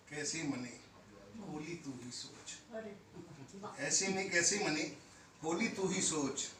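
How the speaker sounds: measured couplet recital with held words; poetry recitation. Acted. Poet opening his set for an audience, recited verse. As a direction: recite the couplet, lingering on the line ends.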